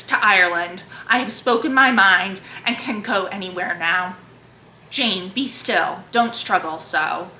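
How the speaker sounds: earnest literary read-aloud, lightly voicing Jane and Rochester; dramatic book reading. A narrator's reading. Booktuber reading Jane Eyre aloud to her viewers, earnest reading voice.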